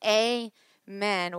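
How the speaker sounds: gentle spoken prayer before a message. Real, not acted. Leads the congregation in prayer.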